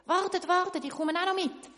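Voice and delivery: calling out. Acted. Baker calls after the boat.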